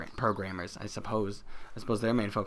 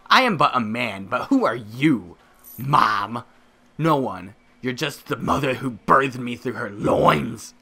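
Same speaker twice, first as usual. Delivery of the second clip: loud, hammed-up indignation, slowing at the end; mock melodrama; 5 dB louder, slower than usual. Son disowning the mother who birthed him, hammy indignation. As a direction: declaim it like a wronged son. Melodramatic speech against Mom.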